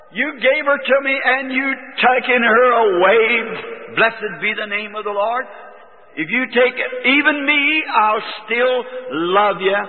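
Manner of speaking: high, slow, near-sung yielding to God; tearful surrender prayer. Retold or imitated. Grieving father yielding his child to God, high and slow. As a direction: let the words lift almost into song.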